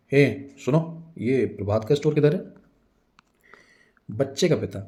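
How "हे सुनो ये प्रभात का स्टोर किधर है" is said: curt, slightly rude hail. Acted. Assistant asks a passer-by the way, rudely. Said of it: "थोड़ी rude tone में पूछता है".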